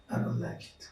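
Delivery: low, cool and unbothered; cool calm refusal. Shown as a demonstration. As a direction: say it coolly, no heat. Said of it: "And you say it in a cool manner".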